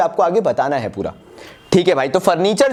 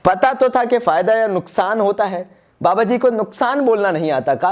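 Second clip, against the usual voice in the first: mocking students; 3 semitones higher than usual. Teacher imitating students who doubt his word, a higher mock grumble. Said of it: "वरना आधे लोग बोलेंगे".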